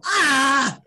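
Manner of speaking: loud, high-pitched "aah" scream; frustrated scream. Real, not acted. Podcast guest stuck picking new teams, exasperated scream. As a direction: scream out while stuck for an answer. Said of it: "Why are you screaming like that".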